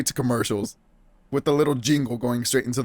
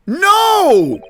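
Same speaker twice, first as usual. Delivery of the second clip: high, drawn-out shout; loud, indignant outburst; emphatic denial; 6 dB louder than usual. Acted. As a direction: shout it down in outrage. Hero rejects detective's boast.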